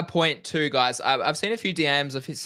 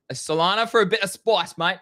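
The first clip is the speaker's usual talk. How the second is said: put-on a light English accent, slightly higher; 5 semitones higher than usual. Host echoing his co-host's pick in a light English accent. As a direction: toss it off in a breezy English accent. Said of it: "I don't know why I went English there".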